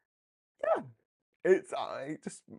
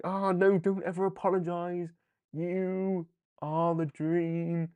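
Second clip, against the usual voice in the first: lightly voiced villain, a touch grand; mock-soothing old Apocalypse, partly slowed; hammed-up villain reassurance. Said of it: "as old Apocalypse would do".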